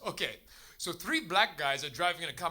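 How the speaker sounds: imitated Dutch accent. Dutch person offering the comedian a joke, Dutch accent. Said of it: "That's my Dutch accent".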